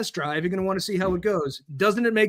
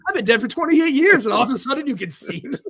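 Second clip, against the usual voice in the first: mock ghost; 5 semitones higher, 4 dB louder than usual. Joke ghost voice, squatter scene.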